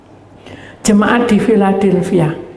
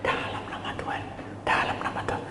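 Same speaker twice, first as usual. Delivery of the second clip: hushed, softer whispered invocation; praying over the sick woman in a hushed whisper; whispered prayer; 15 dB quieter than usual. Retold or imitated. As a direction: breathe the words like a secret prayer.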